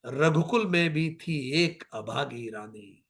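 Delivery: slow, impassioned declamation; stately Hindi verse reading; poetic recitation. Acted. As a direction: declaim each line with weight. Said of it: "वो कहती है".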